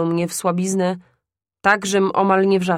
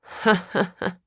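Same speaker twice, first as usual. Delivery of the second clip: pytający śmiech; slower than usual. Acted. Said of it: "rozśmiał się pytająco".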